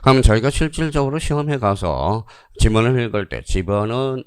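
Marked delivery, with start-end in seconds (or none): 3.4-4.2 "집어는" in one run with the last syllable drawn out; wrong reading demo. Shown as a demonstration. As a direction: read "집어는" straight on, stretching 는. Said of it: "이렇게 읽으면 안 돼".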